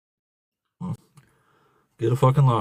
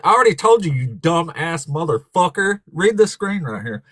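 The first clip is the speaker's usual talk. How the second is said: irritated raised voice; 3 semitones higher than usual. Real, not acted. Streamer telling the preacher off, irritated raised voice. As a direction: snap back at him, fed up. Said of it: "don't get mad".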